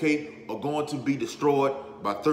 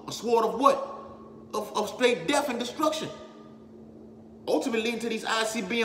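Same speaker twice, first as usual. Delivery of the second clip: higher-pitched, urgent sermon delivery; impassioned preaching; 7 semitones higher than usual. Real, not acted. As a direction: preach it with mounting urgency, hammering each item in the list.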